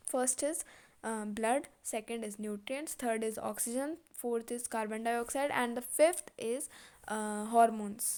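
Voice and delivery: measured classroom dictation; teacher dictating notes word by word; slow dictation reading. Acted. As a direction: read it out slowly for notes. Listing points for notebook.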